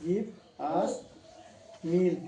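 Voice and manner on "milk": drawn out slowly, word by word; slow teacher's model of milk; slow spelled-out word. Shown as a demonstration. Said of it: "এম আই এল কে, মিল্ক".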